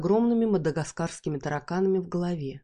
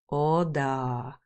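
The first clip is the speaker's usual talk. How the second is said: тихо и довольно, растягивая; протяни с удовольствием; довольно протянул; 3 semitones lower than usual. Acted. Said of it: "довольно протянул". (Бархан вспоминает жену: довольно, протяжно)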